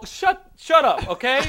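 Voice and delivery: high, slow shouted shut up; mock angry yell. Dreamer yelling at moviegoers to shut up. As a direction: bellow it at the whole theater.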